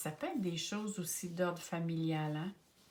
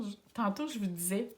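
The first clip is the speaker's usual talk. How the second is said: Quebec accent; 3 semitones higher, faster than usual. Shown as a demonstration. Astrologer to her Scorpio viewers, playful Quebec accent. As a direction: lightly put on a Québécois accent for "tantôt". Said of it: "j'ai pris mon petit accent québécois".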